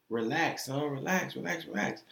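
mock motherly calming; soothing mother. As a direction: gently hush a panicking son. Retold mother soothing her crying son.

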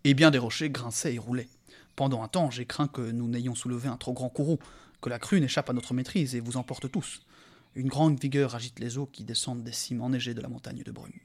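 voix de conteur posée; lecture de récit. A narrator's reading. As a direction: lire le passage comme un conte. Reads the novel aloud. (narration calme et posée)

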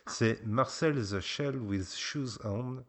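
slow, deliberate English accent on the title; a French dad's so-so English accent; showing how the title should sound. Shown as a demonstration. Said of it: "avec mon accent qui est pas beaucoup meilleur".

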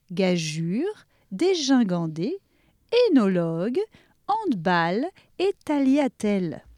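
careful correct pronunciations. Shown as a demonstration. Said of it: "On devrait dire". (prononciation correcte et soignée)

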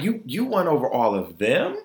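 rising to a shocked, high squeak; incredulous. Retold or imitated. To a friend over an award, shocked and squeaky. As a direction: disbelief climbing into a yelp. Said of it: "And I'm like".

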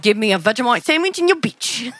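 hammed-up Australian noble; mock Australian accent. Noble demanding sandwich and bride, mock Australian accent. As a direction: play along in joking Australian. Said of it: "Fucking Australian".

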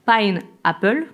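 Pine Apple said slowly, in a French speaker's careful English accent; a self-conscious attempt at English, Pine Apple. Real, not acted. Presenter names a guest's English studio, trying an English accent. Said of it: "avec mon bel accent, euh, anglais".

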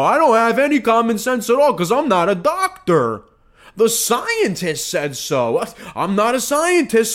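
sarcastic, high-pitched mock deference; mocking normie voice. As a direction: play the gullible believer, dripping sarcasm.

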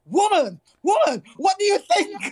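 high, loud angry outcry at the teacher; retold outburst. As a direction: storm in and let her have it, voice up high. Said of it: "and I'm like".

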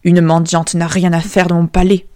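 lightly voiced father casting her out; stern king. King banishing his beggar daughter, mildly stern. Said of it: "dit-il".

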